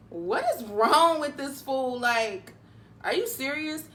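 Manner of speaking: mildly stunned, as if asking herself; incredulous. Retold or imitated. Retold disbelief at the gunman.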